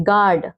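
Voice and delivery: "गार्ड" with no u glide; silent u. Shown as a demonstration. Teacher modelling "गार्ड" for pupils as gaad, silent u. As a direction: say "गार्ड" as gaad, straight from g to long a. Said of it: "यू को नहीं लाना बीच में".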